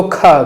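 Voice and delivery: खा said with a hard k h instead of sh; wrong kha reading. Shown as a demonstration. Teacher mimics how some people misread ष as खा. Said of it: "कुछ लोग खा भी पढ़ते हैं".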